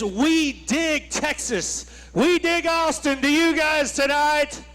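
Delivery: slow, drawn-out arena announcer call. Shown as a demonstration. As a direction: boom it out like a ring announcer. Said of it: "That's my announcer voice".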